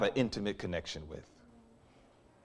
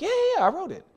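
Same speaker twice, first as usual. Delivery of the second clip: high, sheepish admission; bashful professor; much faster than usual. Retold or imitated. Professor admits to the student he wrote it, lightly sheepish. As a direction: shrug it off with a little laugh in the voice.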